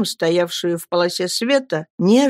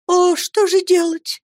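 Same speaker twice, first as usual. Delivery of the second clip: put-on high, slow girl's lament, wringing hands; despairing cry; 12 semitones higher than usual. Girl cries out in despair over her lover's shame, anguished. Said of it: "ломая руки в порыве отчаяния".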